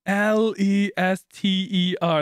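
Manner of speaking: mock spelling letter by letter, very slow; slow dim spelling. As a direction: drag out each letter like a confused guy. Imitating Lester spelling his name.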